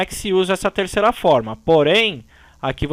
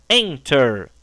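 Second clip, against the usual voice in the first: ENTER with EN strong, ending falling; stress on first syllable; 3 semitones lower than usual. Shown as a demonstration. Teacher repeating the example, EN stressed in ENTER. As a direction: lean on EN, let TER drop in ENTER. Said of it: "o forte tá no en".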